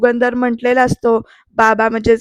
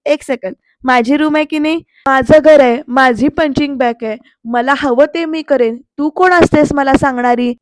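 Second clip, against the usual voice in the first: defiant retort. Retold or imitated. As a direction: stand your ground in your own room. Pruthvi argues back.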